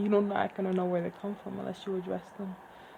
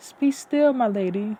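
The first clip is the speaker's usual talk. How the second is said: retorting; 8 dB louder than usual. Acted. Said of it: "Upaya retorted".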